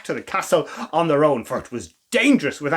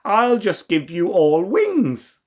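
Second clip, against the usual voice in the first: calm; 2 semitones higher, slower than usual. Acted. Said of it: "said Rose".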